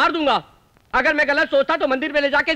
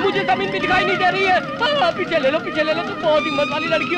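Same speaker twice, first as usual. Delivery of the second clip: frightened pleading; 7 semitones higher than usual. Acted. Hanging in fear, pleading.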